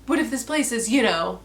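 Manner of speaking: hammed-up spooky characters; mock the overdone foreshadowing; lightly hammed-up gasp and hush; mock dramatic foreshadowing. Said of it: "they kept saying".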